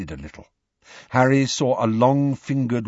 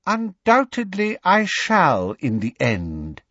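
high, icy villain voice; cold voice; 7 semitones higher than usual. A narrator's reading. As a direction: pitch it high and coldly assured. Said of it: "said the cold voice".

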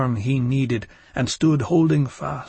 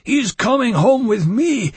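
higher, louder furious shout; 7 semitones higher, 5 dB louder than usual. Acted. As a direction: shout it in a fury. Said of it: "he said furiously".

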